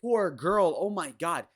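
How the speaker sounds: exaggerated pitying coo, put on to ridicule; mock sympathy. Host mimicking people online pitying the girl, mock sympathy. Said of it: "They'll be like".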